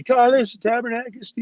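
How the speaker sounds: high, drawn-out mock yell; slow, high-pitched imitated cursing; retold screaming. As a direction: imitate a coach's scream without full volume. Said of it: "Bob screaming at me".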